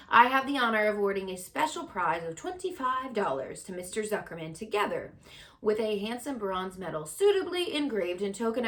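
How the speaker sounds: high, loud fair announcer call. Acted. Loudspeaker opens the prize speech, loud announcer call. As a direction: call the crowd to attention. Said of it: "continued the loudspeaker".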